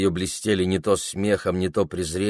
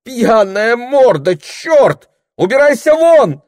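high, loud, scolding yell; a shrieking chase-off; furious shout; 11 dB louder, slower than usual. Acted. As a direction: drive the drunk out screaming. Mistress driving him away.

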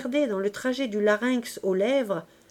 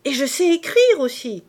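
put-on a girl exclaiming she can write, louder and higher; proud cry; 5 semitones higher, 7 dB louder than usual. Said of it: "s'écria". (s'écrier fièrement, plus fort et plus aigu)

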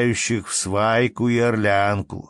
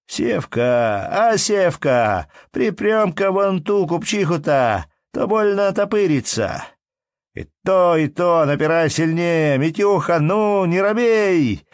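rowdy lads egging on; 7 semitones higher than usual. A narrator's reading. Young men pushing into a merchant's wife, rowdy higher calls. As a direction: push through the crush and urge your mate on. Lads shoving through the crowd.

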